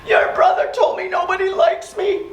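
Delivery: put-on a boy telling the teacher he is disliked, hurt; imitated crying child. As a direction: voice the upset child tattling.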